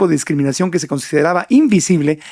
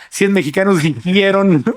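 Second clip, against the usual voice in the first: Víctor; 2 semitones higher than usual. Retold or imitated. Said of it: "el Víctor cuando salía".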